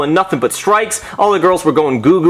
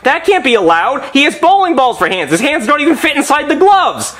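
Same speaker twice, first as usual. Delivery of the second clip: outraged protest; 8 semitones higher than usual. Retold or imitated. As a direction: shout it like it's a robbery. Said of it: "And I'm like".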